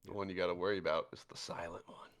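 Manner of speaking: quick ominous whisper. Acted. Warning the table about the silent one, whispered. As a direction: hush it like a secret.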